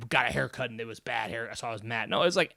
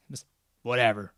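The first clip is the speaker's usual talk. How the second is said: listless shrug; 2 semitones lower than usual. Retold or imitated. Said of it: "And I was like".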